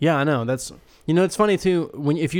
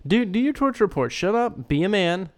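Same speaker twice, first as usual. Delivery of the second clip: goading; 6 semitones higher than usual. Real, not acted. Goading friend to do segment.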